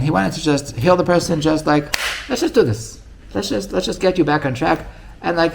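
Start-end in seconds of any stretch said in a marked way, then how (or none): 2.3-4.9 higher, eager retold encouragement; rally someone who is stuck; lightly acted pep talk; upbeat coaxing. Voices Rabbi Nachman's encouraging approach.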